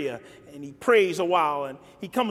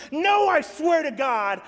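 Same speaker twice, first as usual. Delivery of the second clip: scared swearing; 10 semitones higher than usual. Retold or imitated. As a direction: shout the denial in fear. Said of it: "he's so scared that he even swears and curses".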